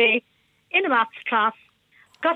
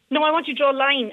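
quick, higher-pitched teacher's correction; insisting teacher; 4 semitones higher, much faster than usual. Retold or imitated. Teacher corrects pupils who misheard "line", quickly insisting. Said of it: "And I went".

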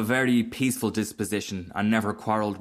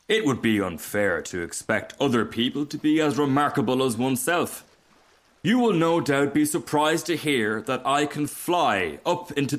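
pompous, higher voice full of itself; boastful rocket; 4 semitones higher than usual. Acted. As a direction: lecture the duck grandly.

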